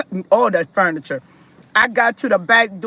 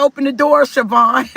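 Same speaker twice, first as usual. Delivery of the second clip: demanding; 3 semitones higher, 4 dB louder than usual. Retold or imitated. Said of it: "He said".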